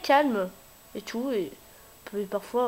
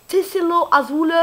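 mock Spanish accent on "Tessero Azul", slowed and raised; hammed-up Spanish accent, higher and louder; 5 semitones higher, 8 dB louder than usual. Shown as a demonstration. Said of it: "Avec un accent espagnol et ça fait T".

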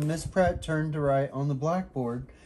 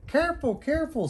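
high, light teddy-bear voice; much higher friendly bear voice; smiling bear; 12 semitones higher, faster than usual. A narrator's reading. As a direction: say it kindly, grinning. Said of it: "smiled the bear".

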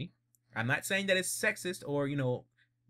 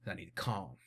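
scheming Dio; 6 semitones lower, 3 dB quieter than usual. Retold or imitated. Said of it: "So like".

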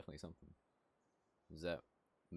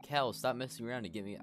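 put-on high, loud girly scolding; hammed-up angry girl; 7 semitones higher, 7 dB louder than usual. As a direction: snap at Kel in a girl's voice. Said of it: "I'm not doing voice acting".

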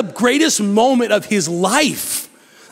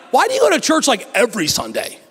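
skeptical friend; 3 semitones higher, faster than usual. Retold or imitated. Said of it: "And they're like".

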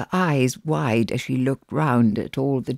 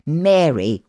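big brother voice; 3 semitones higher, 4 dB louder than usual. Acted. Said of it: "using his big brother voice".

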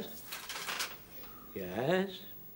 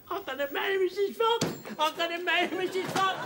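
ecstatic; 12 semitones higher than usual. Acted. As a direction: crow the news again and again. Jones repeating his joyous news.

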